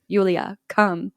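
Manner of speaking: put-on light thick-Russian-accent dad; hint of a Russian accent. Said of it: "in a very thick Russian accent".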